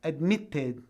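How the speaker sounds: "Admitted" in British English with a hard T; British accent, release the T clearly; British, marked T. Shown as a demonstration. Teacher showing students the T, British accent. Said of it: "eu tô falando o T".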